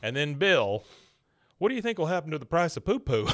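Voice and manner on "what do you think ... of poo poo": laughing question. Retold or imitated. Bill's dumb question, laughing.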